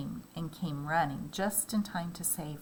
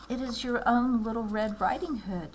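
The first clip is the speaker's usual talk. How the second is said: put-on little girl voice; 6 semitones higher, 4 dB louder than usual. Girl answers at the door.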